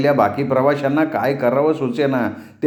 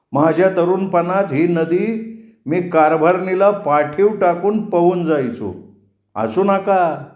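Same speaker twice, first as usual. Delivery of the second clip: ferryman reminiscing in a higher voice; higher-pitched village boatman telling of his youth; lightly voiced ferryman; 5 semitones higher than usual. Ferryman chatting to women passengers about his youth, lightly voiced ferryman.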